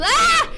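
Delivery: sudden high loud cry of pain; sharp real yelp. Real, not acted. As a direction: burst out at the burn. Spice hits again.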